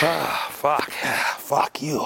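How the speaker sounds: hissed whisper at the fire; whispered curse. Real, not acted. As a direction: curse it under your breath. Cursing the fire.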